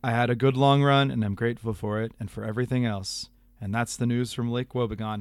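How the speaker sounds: measured radio storyteller sign-off; Garrison Keillor. Acted. Host finishing the email with a radio sign-off, Keillor impression. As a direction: wind down like a folksy monologue. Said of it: "do my appropriate, uh, Garrison Keillor voice".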